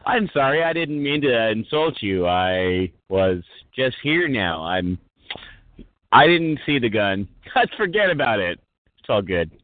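nervous-laugh opening, then slow, sinking apology; demonstrating backing down. Shown as a demonstration. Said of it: "this is the way you're supposed to come at it".

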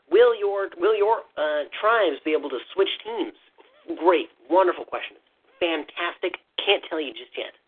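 a hint of a nerdy stream host; lightly put-on nerd voice, stalling politely. Developer praising a question then refusing to answer, lightly nerdy voice. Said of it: "your nerdy voice is just barely, barely higher".

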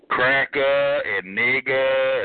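"cracker" and "nigger" slowly ending in "-a", no R; dropped R endings. Retold or imitated. Caller mocking others' speech, "cracker" and "nigger" without R. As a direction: stretch "cracker" and "nigger", leaving off each final R. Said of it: "can't say nothing with E R on it".

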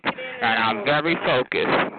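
slow and deliberate. Real, not acted. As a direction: drag each word out slowly. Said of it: "See how slow it is?".

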